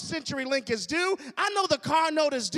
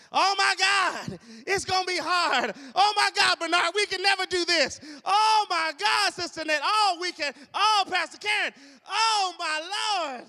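a hammed-up wail of panicked grumbling, higher and louder; mock complaining crowd; 5 semitones higher, 4 dB louder than usual. The Israelites wailing at the spies' report, mock panic. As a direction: whine it like a frightened crowd.

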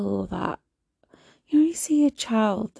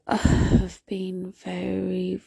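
"very" drawn out slowly and heavily; slow, heavy "very"; stretched very; much slower than usual. Real, not acted. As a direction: let "very" linger, weary. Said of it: "drawn out word".

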